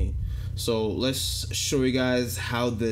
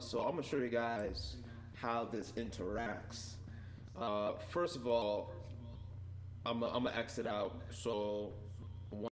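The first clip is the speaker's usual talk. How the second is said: voice changer effect; 13 dB quieter than usual. Shown as a demonstration. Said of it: "I'm back on my regular voice".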